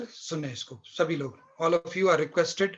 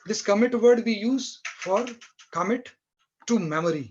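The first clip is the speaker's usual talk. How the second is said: commit said slowly, word by word; stressing commit; 3 semitones higher, much slower than usual. Shown as a demonstration. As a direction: lean on commit so it sticks. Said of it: "जैसे एक उदाहरण के लिए कमिट word है". (commit शब्द पर ज़ोर देकर धीरे बोलें)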